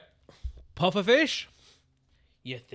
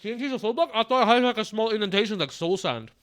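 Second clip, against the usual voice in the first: talking while chewing food; mouth full; 4 semitones higher than usual. Real, not acted. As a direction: speak through a mouthful. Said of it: "Sorry, I'm eating with my mouth full".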